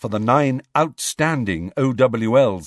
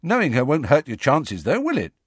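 encouraging; 5 semitones higher than usual. Acted. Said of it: "Ron told him encouragingly".

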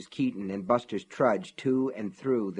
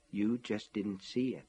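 whispered inner voice; 2 semitones lower, 8 dB quieter than usual. A narrator's reading. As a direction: breathe it like sanity fading. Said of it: "the voice whispered".

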